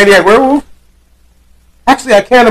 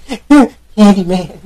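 slow mirror summoning; 10 semitones higher, much slower than usual. Retold or imitated. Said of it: "she was in the mirror like".

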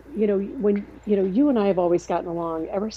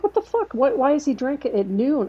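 shocked outburst; 6 semitones higher than usual. Retold or imitated. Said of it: "He's like".

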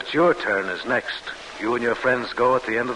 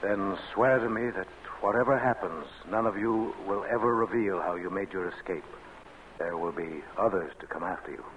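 hushed; 2 semitones lower, 6 dB quieter than usual. Acted. Secret escape plan after guard passes.

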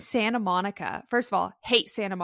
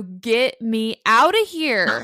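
retold plea; 5 dB louder, much slower than usual. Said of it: "I literally called my mom and I go".

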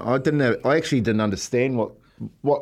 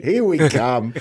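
mock Basil Fawlty; much slower than usual. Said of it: "turned into Basil Fawlty".

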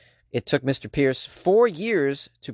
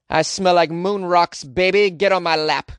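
sleazy seductive voice; 4 semitones higher, 6 dB louder than usual. Pretend. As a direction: purr it like a cheesy flirt. Pickup line to the viewers.

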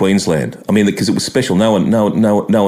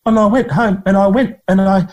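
imitating Langer; 13 semitones higher than usual. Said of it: "and he said".

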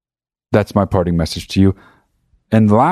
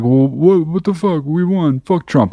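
indignant friend; 8 semitones higher, slower than usual. Retold or imitated. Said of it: "he'd be like".

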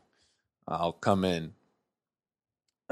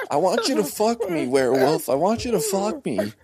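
hammy seductive voice; 6 semitones higher, 3 dB louder than usual. Acted. Seducing the werewolf.

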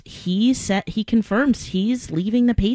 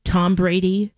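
husband blurting the news, rising to a shout; mock news shout; 8 semitones higher than usual. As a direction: burst out with the big news. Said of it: "He goes".

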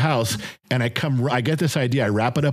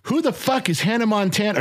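mock angry; 8 semitones higher than usual. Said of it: "I was pissed".

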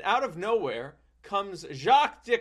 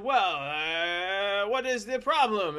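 Jacques voice; 5 semitones higher, slower than usual. Retold or imitated.

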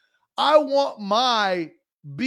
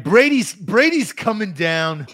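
put-on loud, drawn-out Sopranos mobster accent; 6 dB louder than usual. Co-host trying out his Sopranos voice on request, Sopranos accent. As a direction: put on a hammed-up New Jersey Sopranos accent. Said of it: "In your best Sopranos accent".

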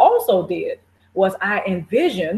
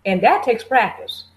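ordinary talk, nothing marked

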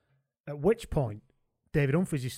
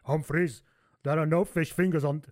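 put-on Johan's accent; 2 semitones higher than usual. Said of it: "let's get the accent right".

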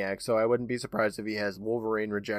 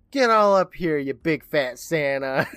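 put-on little girl voice; 4 semitones higher, 6 dB louder, slower than usual. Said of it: "Carrie's all like".

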